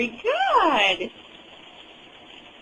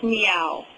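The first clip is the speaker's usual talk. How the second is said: cat meow; 4 semitones lower than usual. Shown as a demonstration. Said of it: "The kitty says".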